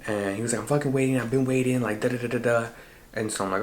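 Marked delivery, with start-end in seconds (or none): 0.6-2.7 mildly heated imitation of impatience; aggressive. Imitating the friend complaining on the phone, mildly aggressive. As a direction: nag insistently, pitch slightly up. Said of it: "he was very aggressive with me".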